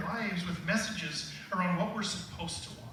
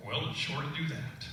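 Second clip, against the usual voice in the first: Texan cat; 4 semitones lower, 3 dB quieter than usual. Retold or imitated. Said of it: "they wanted the cat to be from Texas".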